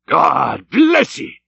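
slow, high, overcome cry; choked-up captain's blessing; half sob, half shout. Acted. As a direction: shout it through welling emotion. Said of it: "half sob and half shout".

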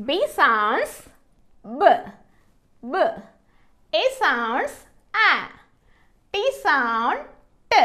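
"B", "A", "T" as short isolated sounds; swooping "sounds", then a short phonic after a pause; phonics sounding-out. Shown as a demonstration. Teacher sounding out B, A, T for learners, each sound short and separate. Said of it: "ఎలా పలుకుతుందో చూద్దాము".

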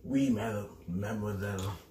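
put-on half-hearted French accent; bad French accent. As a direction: try a little French, badly faked. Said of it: "I'm really bad at that accent".

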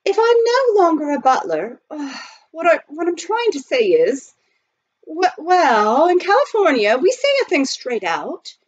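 high-pitched, hesitant fumbling with a sigh; flustered, faltering. A narrator's reading. Butler working up to a proposal, flustered. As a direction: keep restarting, nervous and pitched high.

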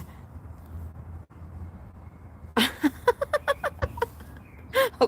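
high, breathless laughing fit; helpless laughter. Real, not acted. Streamer amused by a viewer's reply, laughing helplessly. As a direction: crack up, starting nearly silent. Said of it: "พี่ขำที่น้องตอบมา".

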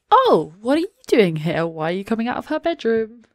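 loud, swooping "oh", then questioning; acted suspicious surprise. Sim finding someone coming out of her bedroom, mock surprised. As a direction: play caught-off-guard and accusing. Voicing a Sim catching partner.

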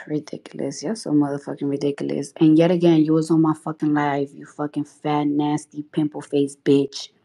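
real seething contempt, low. Real, not acted. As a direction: drop low and spit the insults. Cursing out a hater on live.

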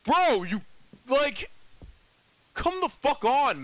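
high, loud and frustrated, stretching it out; high, slow exasperated whine; exasperated outburst. Real, not acted. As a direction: complain at the game in exasperation. Frustrated at the game.

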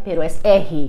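"R" with the Portuguese breathy h-like sound. Shown as a demonstration. Brazilian explaining her language's letter, "R" said as breathy "é-hi". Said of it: "claro que existe la letra R".

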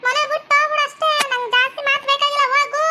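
wife furiously sending her husband away; angry dismissal. Acted. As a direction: throw him out of the house.

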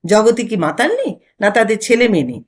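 a touch of annoyed bite; irritated. Acted. Husband losing patience with wife, irritated. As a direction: snap back, mildly fed up. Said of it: "বিরক্ত স্বরে বলেন".

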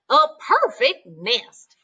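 slow, changed goose voice. Acted. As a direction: savour the words slowly. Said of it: "she cried".

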